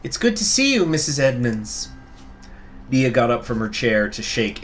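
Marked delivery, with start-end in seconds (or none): 0.0-1.9 character voice. Acted. Reads out character's greeting.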